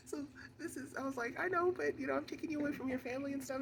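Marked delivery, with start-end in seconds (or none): 1.4-3.6 rushed apology. Retold or imitated. She quotes her apology.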